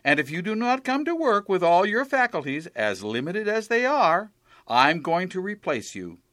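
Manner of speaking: stern boss scolding. Acted.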